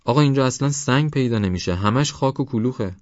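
high-pitched schoolboy protest; calling out. A narrator's reading. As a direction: call it up high to the teacher. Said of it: "بایرام از روی دیوار داد زد". (با صدای زیر و معترض، مثل داد زدن)

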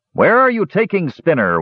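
high, loud Kender cry; high alarmed shout from the crowd. Acted. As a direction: call out in alarm across the room. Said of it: "one of the Kender cried".

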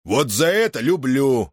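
slow, brightening approval; suddenly cheerful again; cheered up. Acted. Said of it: "повеселел Федот". (повеселев)

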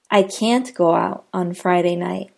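"can't" given the weight; stressed can't. Shown as a demonstration. Teacher repeating the can't sentence, "can't" stressed. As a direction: lean on "can't". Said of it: "The word can't is always stressed".

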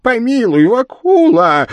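high, loud plaintive wail; squealing demon plea; devil moaning piteously. A narrator's reading. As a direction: beg for mercy, drawing it out. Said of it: "жалобно простонал чёрт".

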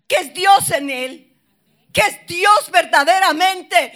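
loud, high, impassioned sermon voice; preaching at full force. Acted. Pastor urging the congregation, loud impassioned preaching. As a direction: drive it home to the congregation.

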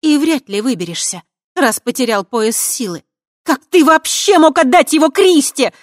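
building to a high, loud shout; furious high shout; breaking into a shout. Acted. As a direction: lose control and scream at him. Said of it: "сорвалась она на крик".

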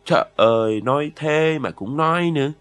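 exasperated, dismissive comeback; scoffing retort. A narrator's reading. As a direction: scoff at the remark, drawing it out. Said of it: "Remep xì một tiếng".

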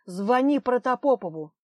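a desperate loud call; shouting to her. Acted. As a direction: yell it while being dragged off. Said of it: "Он крикнул".

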